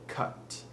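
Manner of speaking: French-accented cot, sounding like CUT; short O as U. Shown as a demonstration. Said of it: "You more so wanna make it cut".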